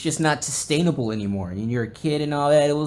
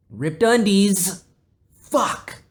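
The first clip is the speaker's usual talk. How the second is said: mock anguish; 9 semitones higher, 8 dB louder, much slower than usual. Mock despair over ripped underwear.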